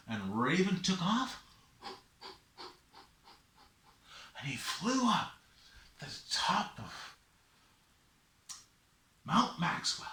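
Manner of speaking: measured telling with long pauses; story narration. A narrator's reading. Storyteller follows Raven up Mount Maxwell, measured narration.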